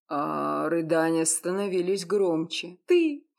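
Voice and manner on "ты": very high, louder cries choked by sobs; trying to speak through tears; sobbing. Acted. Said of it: "из-за плача". (сквозь рыдания)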